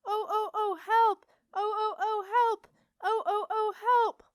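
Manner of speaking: high siren-like cries for help; loud repetitive wail. A narrator's reading. Alarmed lock will not be shushed, wailing loudly. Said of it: "into a loud, repetitive wail".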